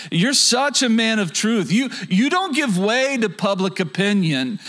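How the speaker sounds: butter him up with a sneer underneath; sarcastic flattery. Retold or imitated. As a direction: fake admiration laid on thick. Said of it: "can you sense the sarcasm".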